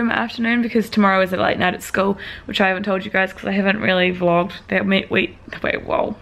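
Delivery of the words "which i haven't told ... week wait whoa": groggy and slurred after waking; sleepy, foggy voice just up from a nap. Real, not acted. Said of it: "I'm still really groggy".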